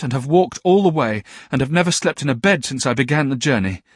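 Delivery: put-on a runaway child begging his aunt for help; pleading boy. A narrator's reading. Boy pours out his story.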